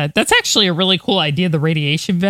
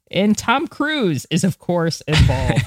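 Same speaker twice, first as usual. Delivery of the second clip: trying not to laugh; slower than usual. Real, not acted. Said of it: "I'm trying not to laugh".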